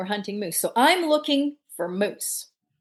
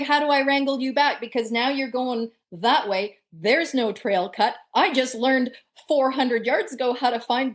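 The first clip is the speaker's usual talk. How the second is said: retold inner panic; 3 semitones higher than usual. Worrying about being lost in the bush, mock inner panic. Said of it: "And then I'm thinking".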